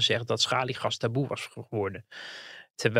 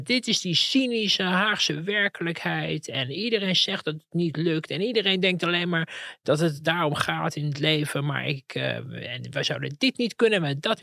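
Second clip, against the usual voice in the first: mock tirade, pitched up; imitated rant; 5 semitones higher than usual. Reporter retells a politician's rant in interview, imitated tirade. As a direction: imitate a politician's exasperated outburst. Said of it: "Waar die begon te schreeuwen".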